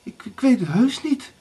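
high, stammered denial; stammering. A narrator's reading. Erika answers Blauwbaard about the key, stammering. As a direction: stumble on the first word in a high voice. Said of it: "stotterde Erika".

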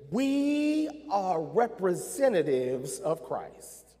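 slow, deliberate, every word weighed; slow emphatic statement. Shown as a demonstration. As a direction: lay it down slowly. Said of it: "I'll say that again".

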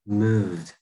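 "moved" closing on a voiced D; final D sound. Shown as a demonstration. Teacher concluding it takes âm đờ, voiced D on "moved". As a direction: add a clear D after the V in "moved". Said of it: "thì mới đi là âm đờ".

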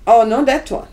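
loud, insistent, correcting the buyer; loud exclamation. Retold or imitated. Dealer calling out to the buyer, loud and insistent. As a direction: call it out sharply, half-shouting no.

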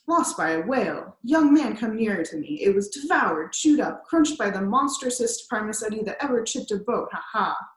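put-on old captain bursting out about the lost leg; fierce, grieving old captain. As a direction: make the lad feel the whale's fury. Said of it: "alarmed by his energy".

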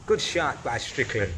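a hint of an American accent; lightly imitated American accent. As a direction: attempt an American commentator's accent. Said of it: "Does that sound American?".

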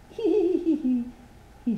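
miserable giggle. Acted. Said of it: "she said miserably".

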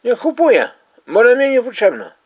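loud. Real, not acted. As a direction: shout it back in frustration. Heated argument over suitcase.

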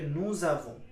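নু জাভো with the s linked as z; French liaison. Shown as a demonstration. Teacher showing liaison to students, নু জাভো linked with z. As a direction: run নু into জাভো with a z sound. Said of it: "এসটা আবার জ উচ্চারণ হয়ে যাবে".

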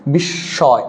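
বিস্ময় with a long doubled "sh", "bish-shoy"; doubled consonant. Shown as a demonstration. Teacher demonstrating the rule to students, বিস্ময় with doubled sh. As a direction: hold the sh in বিস্ময়, leaving the m silent. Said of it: "দিতে হবে".

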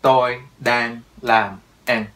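"Tôi đang làm ăn" in four slow, separate words; four separate beats. Shown as a demonstration. Teacher shows four chunks to learners, slow and word by word. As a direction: chop it word by word, slowly and firmly. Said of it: "Gồm có bốn cái chặt".

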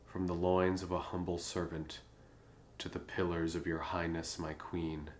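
measured, understated love-poem reading; poem recitation. Acted. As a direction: recite formal verse to a queen, pausing between phrases.

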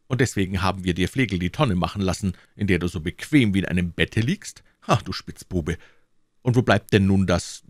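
a mild burst of outraged pleading; indignant protest. Acted. Citizens protest to the king against the sage, indignant.

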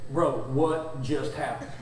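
stunned, slow question. Retold or imitated. Karaoke guy stunned.

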